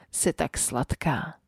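slow, hushed murmur; whispered. Acted. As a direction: breathe it softly and slowly. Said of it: "zašeptal".

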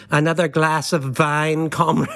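lightly imitated German accent. Producer toasting over red wine, in a mock German accent. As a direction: put on a jokey German accent. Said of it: "in a German accent saying".

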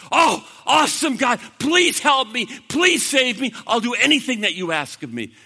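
loud, high eager begging; acted pleading. Jack begging God to save him, pleading. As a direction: beg to be saved, voice up.

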